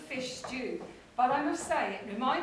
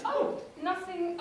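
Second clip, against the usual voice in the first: nervous laugh; 3 semitones higher, slower than usual. Acted. Caught out, laughing it off.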